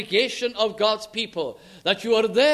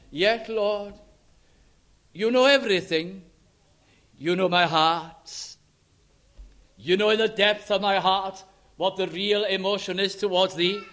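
humble Peter. Pretend. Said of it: "He's feeling very low".

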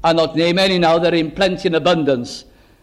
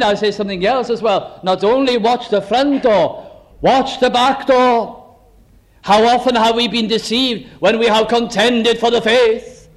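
raised, driving sermon delivery; impassioned preaching; 4 semitones higher than usual. Acted. Preacher warns congregation to watch the doors, impassioned. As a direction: preach a warning with rising pitch.

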